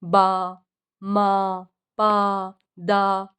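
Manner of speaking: बा, मा, पा, दा as separate, evenly pitched syllables; single babbling syllables. Shown as a demonstration. Teacher demonstrating a six-month-old's babbling, बा, मा, पा, दा as isolated syllables. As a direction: give बा, मा, पा, दा one at a time with pauses. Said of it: "वो single syllable बोलना शुरू कर देता है".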